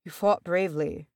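gentle reassurance. A narrator's reading. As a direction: console him kindly. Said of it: "Aragorn said gently".

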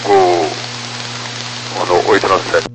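thin, distant radio transmission; pilot over the radio. Real, not acted. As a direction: read back like a pilot on the radio.

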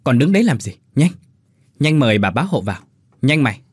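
loud, rushed orders to the maid; hurried urging. Acted. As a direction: hurry the girl along sharply. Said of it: "Mụ chàng hấp tấp".

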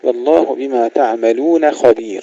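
thin the ن of "تعملون", thicken خ in "خبير"; light nun, heavy kha. Shown as a demonstration. Teacher recites the verse ending, light nun and heavy kha. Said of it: "خبير تفخيم الخاء".

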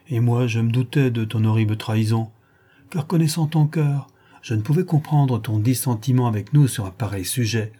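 gaily. Acted. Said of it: "dit gaiement madame Borel".

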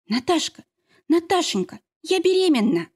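friend's joyful pregnancy announcement, high exclaim. Acted. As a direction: blurt the happy news to her friend. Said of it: "радостно воскликнула".

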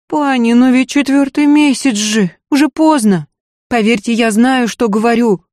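a scared maid begging her lady to listen; frightened maid. Acted. Maid warns the lady it is too late, pleading.

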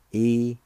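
E-U-S-T said high and loud, each sound spelt out; careful teacher demo; syllable-by-syllable Cherokee. Shown as a demonstration. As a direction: sound out E-U-S-T slowly for learners. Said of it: "First part is pronounced like this".

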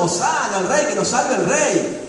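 loud, slowed acclaim for a king; crowd cheering. Retold or imitated. The crowd hails Jesus as king a week before, loud cheer. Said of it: "estaba gritando".

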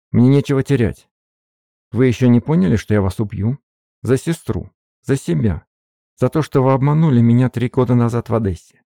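high, loud, furious ultimatum; nothing to lose, hurl it at him; fierce threat. A narrator's reading. Katerina at gunpoint shouts her ultimatum, loud and high.

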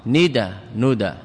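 ندى said first with kasra as nida, then with damma as nuda; short ندى forms, kasra then damma. Shown as a demonstration. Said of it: "الندى بالكسر أكثر من الضم".

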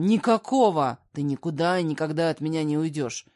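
furious man refusing divorce, shouting; losing his temper. Acted. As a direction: bark it out, losing control. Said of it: "срывается он".

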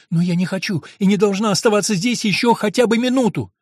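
громче и выше, с напором; решительная громкая мольба; решительно. Acted. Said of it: "Решительность, с какой были произнесены". (Антония решительно требует, громче и выше обычного)

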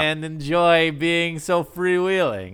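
slow, high mushy cool-guy voice; marbles in mouth. Retold or imitated. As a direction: drag it out, mouth full of marbles. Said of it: "marbles in his mouth".

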